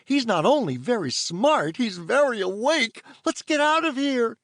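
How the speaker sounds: high, quick little fairy, in trouble; a small fairy fretting to her helper; fairy voice, worried. Acted.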